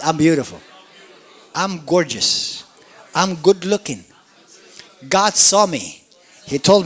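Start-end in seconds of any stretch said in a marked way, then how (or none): 0.0-4.0 I'm beautiful said boldly and loud, falling on beautiful; bold declaration. Shown as a demonstration. Pastor saying it boldly for the congregation. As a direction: declare it with conviction. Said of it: "Say it boldly".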